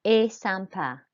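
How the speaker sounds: EST said as "ay", then SYMPA; French EST with only the vowel sounded; silent ST. Shown as a demonstration. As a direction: model EST SYMPA as "ay sam-PA". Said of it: "E S T is pronounced E".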